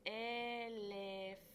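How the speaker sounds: "elefante" stretched syllable by syllable, level pitch; slow sounding-out. Shown as a demonstration. Teacher introducing the next example word, sounding it out slowly. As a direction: draw out every syllable of "elefante" evenly.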